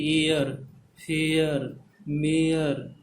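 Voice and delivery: एयर, फेयर, मेयर with the ए-अ glide stretched; diphthong demonstration. Shown as a demonstration. Teacher giving examples of the ए-अ diphthong, drawn out. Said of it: "ए और अ का sound".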